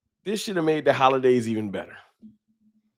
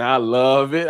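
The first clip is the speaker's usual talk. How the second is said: slow, drawn-out rapper ad-lib; lightly done impression of a rapper, slowed down; 4 dB louder, slower than usual. Shown as a demonstration. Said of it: "in my Jeezy voice".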